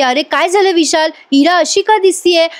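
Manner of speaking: frightened father. Retold or imitated. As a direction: ask worriedly as the scared father. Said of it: "शुभमकर खूप घाबरतात".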